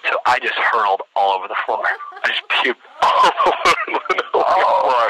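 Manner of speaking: slow, laugh-filled delivery; laughing retelling. Real, not acted. Storyteller admitting he threw up on the floor, laughing through it. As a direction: crack up while telling it.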